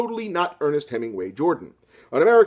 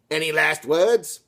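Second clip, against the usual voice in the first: villain menace; slower than usual. Acted. Fascist soldier, slow menace.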